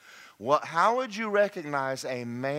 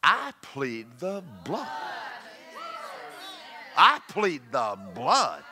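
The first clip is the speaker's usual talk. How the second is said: slow, each word planted; bold declaration; slower than usual. Retold or imitated. Believer answering the accusing devil, slow proud shout. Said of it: "you look at the devil ... and you say".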